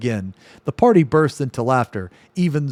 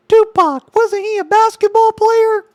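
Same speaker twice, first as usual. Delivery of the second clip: much higher, louder squeaky put-on voice; Ember impression; 9 dB louder than usual. Ember impression squeaking a dumb question. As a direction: ask it in a tiny cartoon squeak. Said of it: "here's a good Ember impression".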